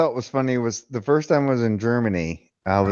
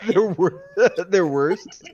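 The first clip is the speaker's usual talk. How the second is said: laughing; 4 semitones higher, slower than usual. Real, not acted. Mocking the mispronounced wurst.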